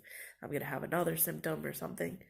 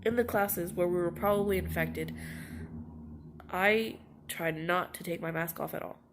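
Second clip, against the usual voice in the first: louder, exasperated protest; frustrated; 5 dB louder than usual. Real, not acted. Student insisting she kept her mask on, louder and frustrated. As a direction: push back, voice raised in frustration. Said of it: "I'm so mad".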